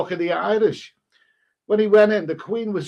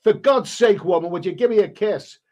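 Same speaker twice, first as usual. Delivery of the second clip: mock exasperated plea, louder at first; 4 dB louder than usual. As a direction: act out running out of patience. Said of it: "Finally, Michael lost his patience".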